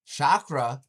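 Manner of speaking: loud disbelieving echo; stunned question. Real, not acted. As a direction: repeat the word as if you can't believe it. Stunned by the video claim.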